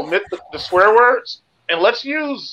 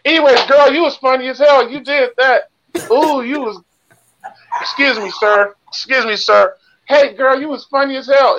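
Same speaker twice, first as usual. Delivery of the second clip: high, breezy brush-off voice; dismissive gushing; 8 semitones higher than usual. Retold or imitated. Crowd gushing past the comedian, high and breezy. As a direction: brush past him, gushing at her instead. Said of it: "they looked at me like".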